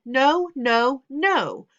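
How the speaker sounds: put-on loud, high, furious boy; a fed-up son yelling at his parents; shouting outburst. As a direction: let it all burst out loud.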